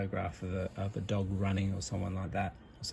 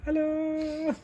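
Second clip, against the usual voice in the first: robot voice; 3 dB louder than usual. Acted. Mannequin greets on camera.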